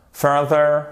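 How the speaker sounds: "further" back in one piece, stressed at the start; stress on first syllable. Shown as a demonstration. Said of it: "Mettez bien l'accent tonique ici". (« further » accentué sur la première syllabe)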